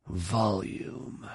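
soft, sighed complaint; quiet, resigned murmur; weary sigh. A narrator's reading. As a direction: let it out on a sigh. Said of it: "Fett sighed".

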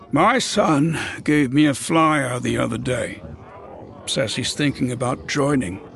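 lightly voiced old worker, hushed; half-whispered worry from a worker. Old worker gossiping at table.

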